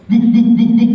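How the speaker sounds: high, loud imitated woofs; forceful mock barking. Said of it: "Gonggongnya makin keras malah".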